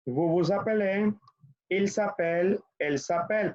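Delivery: each French form said clearly for the class to echo, "je m'appelle" with a rising end; teacher modelling French verb forms to repeat; model conjugation for repeating. Shown as a demonstration.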